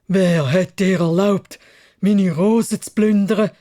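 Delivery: lauter, langsamer Wutausbruch des Biests; brüll den Dieb an wie ein wütendes Ungeheuer; tobend. Acted. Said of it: "hat's mit einer heiseren Menschenstimme tobet". (Biest tobt laut gegen den Rosendieb)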